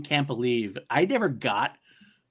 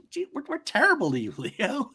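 mock apology; 13 semitones higher than usual. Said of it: "Riggs follows it up".

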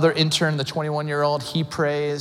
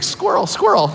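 high, louder mock kid outburst; distractible junior-high kid; 5 dB louder than usual. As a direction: blurt it like an easily distracted kid. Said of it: "like a junior high A D D kid".

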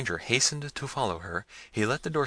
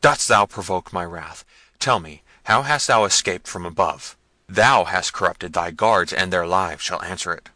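raging threat; 8 dB louder than usual. A narrator's reading. Prince threatening the guards' lives, furious and loud. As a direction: thunder the threat. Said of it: "cried Manfred".

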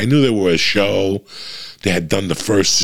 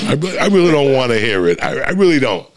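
raised, louder plea to be left alone; exasperated outburst; 7 semitones higher, 4 dB louder than usual. Retold or imitated. To his wife on podcast days, a louder, higher exasperated outburst. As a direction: snap it out, higher and louder, fed up. Telling wife not to bother him.

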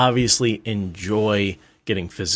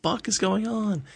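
breathy whisper, pitched up; hushed whisper; 12 semitones higher, 7 dB quieter than usual. Retold or imitated. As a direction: whisper it so the couple can't hear. Students gathered outside dorm door.

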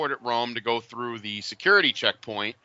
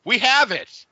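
high, louder mock-Italian "we have it"; Italian clerk; 9 semitones higher, 5 dB louder, slower than usual. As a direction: announce it like a proud Italian clerk. Italian clerk finds the watch.

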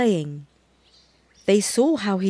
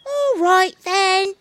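monkey voice; 11 semitones higher, 3 dB louder, slower than usual. A narrator's reading. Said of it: "said the monkey".

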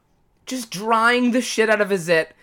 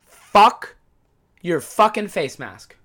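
mock outburst; slower than usual. Real, not acted. Mock curse at face masks.

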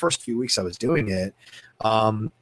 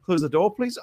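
teary wand keeper; 8 semitones higher than usual. Retold or imitated. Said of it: "Thank you so much for coming".

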